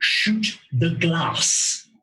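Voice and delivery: put-on odd German-sounding accent. Voicing a character's line to Hannah: slow, strangely Germanic accent. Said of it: "says slowly in a strangely Germanic accent".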